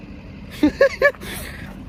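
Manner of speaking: high-pitched breathy laugh; high giggle. Real, not acted. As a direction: burst into a high, voiceless giggle. Laughs after greeting someone.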